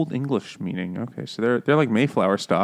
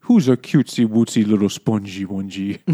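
put-on louder cooing baby talk to a pet; 5 dB louder than usual. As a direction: coo at it like a puppy, hammed up. Sister coos to sponge creature.

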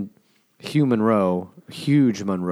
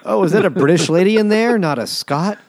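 high, loud exaggerated astonishment; mock surprise; 10 semitones higher, 6 dB louder than usual. Soldiers outside the church, comically surprised. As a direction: play the startled soldiers, way up in pitch.

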